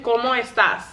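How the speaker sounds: "¿Cómo estás?" with question tune. Shown as a demonstration. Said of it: "you need to say it like a question".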